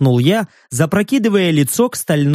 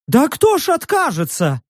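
high eager creature; 8 semitones higher than usual. A narrator's reading.

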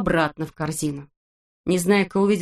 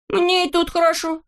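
put-on much higher, cheeky boy's voice; stubborn Neznaika; 11 semitones higher than usual. A narrator's reading. Neznaika refuses to jump, much higher cheeky voice. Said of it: "ответил Незнайка".

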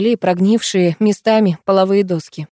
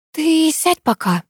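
soft suggestion; 9 semitones higher, slower than usual. A narrator's reading. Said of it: "предложила я ему".

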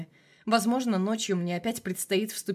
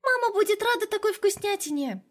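put-on sheepish little girl; 12 semitones higher, 3 dB louder than usual. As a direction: sulk it out like a scolded kid. Little girl speaking excitedly.

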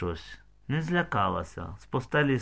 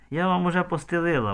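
higher-pitched, mildly gentle voice; 7 semitones higher, faster than usual. A narrator's reading. Mother welcoming guests to the shed, mildly gentle. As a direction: offer it kindly, pitched up. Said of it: "мамка лагідно".

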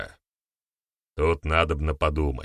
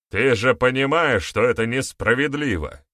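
louder, higher barked protest; 6 semitones higher, 4 dB louder than usual. A narrator's reading. Elder barking at Baryata in protest, loud. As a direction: snap the protest out. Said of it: "рявкнул один из старейшин".

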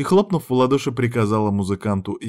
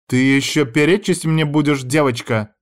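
higher, louder indignant shriek; 5 semitones higher, 5 dB louder than usual. A narrator's reading. Madame Elea shrieking at a talking-back student, higher and louder. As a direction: shriek at the insolent girl. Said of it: "взвизгнула мадам Элея".

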